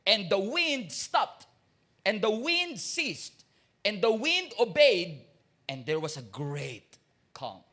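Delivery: slow, weighty sermon cadence; solemn scripture reading. Acted. Preacher to congregation, slow solemn reading. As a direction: let each line of the miracle land slowly.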